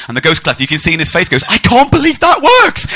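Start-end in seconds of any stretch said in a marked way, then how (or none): 1.5-2.9 high, loud, slow-drawn exclamation; mock gleeful yell. Ghost collector getting away with it, hammed-up gleeful yell. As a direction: crow it like a trick paid off. Collector's secret glee, acted.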